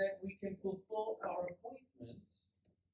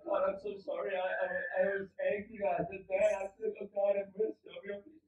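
mock desperate plea, pushed out and stumbling; stranded driver's half-earnest outcry; crying out to God; 3 dB louder than usual. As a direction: plead for mercy in a hurried acted prayer. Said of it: "now I'm crying out to God".

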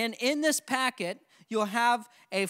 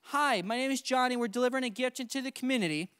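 door greeting demo; 2 semitones higher, faster than usual. Shown as a demonstration. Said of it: "And so when you say".

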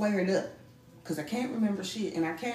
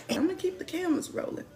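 laughing whisper; 9 semitones higher than usual. Real, not acted.

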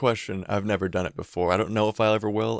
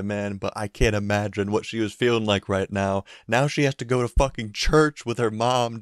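ordinary talk, nothing marked

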